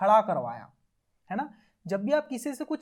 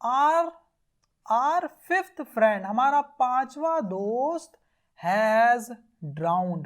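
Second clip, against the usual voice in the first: mock cry out; 3 dB louder, much slower than usual. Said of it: "वो चिल्लाते हुए कहा".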